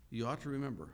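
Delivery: "ought" pushed up high and loud; stress on ought. Shown as a demonstration. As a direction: make "ought" a command. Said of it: "not just making a nice little suggestion".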